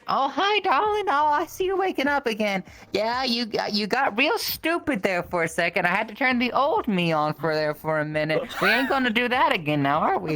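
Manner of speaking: sugary but threatening, like a scolding grandma; old lady punishing. Retold or imitated. Imitating the old woman from a video scolding her kids, sweetly menacing. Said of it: "that old lady's".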